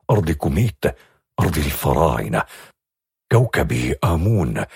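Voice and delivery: low, grave proclamation; serious. A narrator's reading. Envoy revealing her royal homeland, low and grave. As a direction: announce her destiny with gravity. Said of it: "وقال بجدية".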